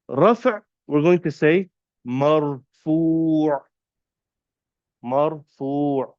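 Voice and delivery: slow, careful dictation; said slowly. Shown as a demonstration. Teacher dictating Arabic terms slowly for students. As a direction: spell it out slowly for note-taking. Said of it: "I'll say it slowly so you can write it down".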